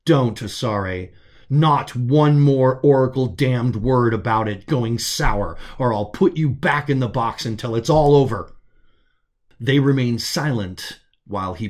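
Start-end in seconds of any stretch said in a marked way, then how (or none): 0.1-8.5 stern warning. Acted. Arvin cuts off the pal.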